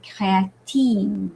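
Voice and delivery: Créative slow with stress on the final syllable; French Créative, stress at the end. Shown as a demonstration. Teacher repeating French stress to students, Créative stressed at the end. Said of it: "at the end".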